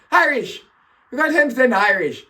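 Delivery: high, loud disbelieving outburst; laughing disbelief turned into a high cry; amazed exclamation. Real, not acted. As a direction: blurt it out in high-pitched astonishment. Astonished by his DNA result.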